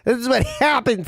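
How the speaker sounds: mock cold girlfriend.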